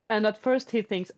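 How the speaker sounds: ordinary delivery, nothing marked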